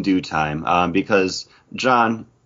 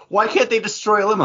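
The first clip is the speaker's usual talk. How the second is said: put-on quoting girlfriend; 13 semitones higher, faster than usual. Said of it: "her point was".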